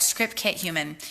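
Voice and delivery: script, kit, human, each word tapped out; short emphatic recap of script, kit and human; punchy recap list. Shown as a demonstration. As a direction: hammer the three words home as a summary. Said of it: "You need a script".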